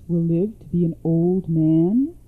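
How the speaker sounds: mother's anxious question, lifted at the start; pleading mother. Acted. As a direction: ask the seer earnestly about your child.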